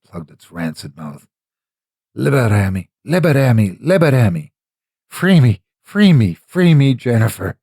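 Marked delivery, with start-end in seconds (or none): 2.2-7.6 pleading creature building to a shriek. A narrator's reading. The creature cries out to Jennifer, pleading then shrieking. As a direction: beg for release, swelling from a gag to a shriek. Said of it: "it choked, almost pathetically".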